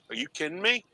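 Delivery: Italian-Philly accent impression; regular Philly accent. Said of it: "the regular Philly".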